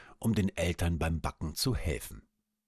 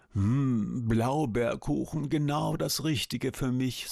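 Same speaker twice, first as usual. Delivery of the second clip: higher, dreamy sweet cooing; 5 semitones higher than usual. Acted. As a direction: coo it like a bee smelling cake. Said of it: "säuselte sie".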